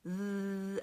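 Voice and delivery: "th" breathed over the tongue; no voice, just air on "th"; unvoiced "th"; voiceless th. Shown as a demonstration. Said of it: "th is voiceless, no voice".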